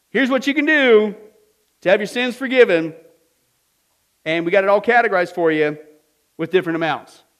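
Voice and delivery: loud, high barker calling out; hawking pardoner. Retold or imitated. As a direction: hawk it like a market crier. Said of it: "these guys went around and says".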